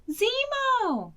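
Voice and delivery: high, long call of his name; yelling name. Acted. Betsy yelling for her wolf, high and drawn out. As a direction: call out far into the woods. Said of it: "Betsy yelled".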